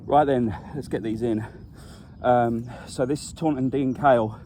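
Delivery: breathless after the long walk; slightly winded, puffing between words; out of breath. Real, not acted. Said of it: "I don't know why I'm out of breath".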